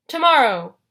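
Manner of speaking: loud monster decree; Cyclops ultimatum. A narrator's reading. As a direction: boom out the deadline. Cyclops sets a deadline.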